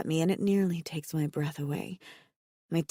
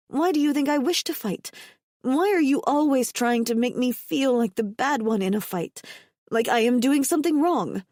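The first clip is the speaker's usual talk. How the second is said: higher and louder, flaring up in hurt anger; angry outburst; 6 semitones higher, 4 dB louder than usual. Acted. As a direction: throw the accusation back at him, heated. Asha flares up at Himalo.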